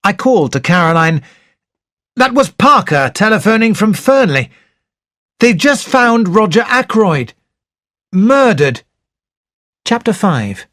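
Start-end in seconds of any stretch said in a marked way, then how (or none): 2.1-8.8 raised, urgent announcement of the murder; urgent news. Acted. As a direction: call it out to Caroline, shaken. Doctor calls out shocking news.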